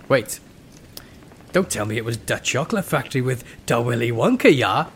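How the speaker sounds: lightly done mock German accent; comic German accent with a tagged-on question; loose German accent. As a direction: guess along in a rough German accent. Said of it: "I'm doing a very loose German accent".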